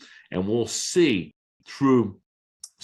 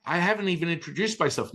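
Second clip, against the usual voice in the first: startled protest; 9 semitones higher than usual. Retold or imitated. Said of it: "And I'm like".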